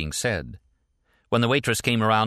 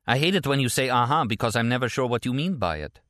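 lightly voiced woman, pitched higher; mild reproach, pitched up; Stella, complaining; 5 semitones higher than usual. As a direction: complain in a lifted character voice.

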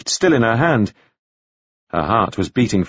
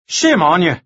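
raised-pitch reproach; indignant scolding; 6 semitones higher than usual. A narrator's reading. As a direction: shame her, voice pitched up. Devlin scolds Anna in quarrel.

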